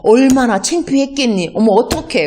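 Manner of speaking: mother soothing her hurt son, cooing at the end; comforting mother. Retold or imitated. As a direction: sympathetic mother consoling her son after school. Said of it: "이렇게 말을 하지".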